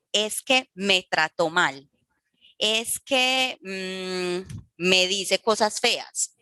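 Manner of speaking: slow, aggrieved complaining voice, lightly acted; hurt complainer. Shown as a demonstration. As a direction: play someone who feels wronged. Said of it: "¿A qué me refiero?".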